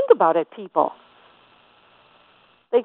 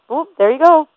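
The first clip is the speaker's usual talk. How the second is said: emphatic retort; 8 semitones higher, 5 dB louder than usual. Retold or imitated. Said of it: "I said".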